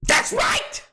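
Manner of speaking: high shouted movie-star impression; Leonardo DiCaprio. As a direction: yell it like a dramatic film hero. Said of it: "just like Leonardo DiCaprio".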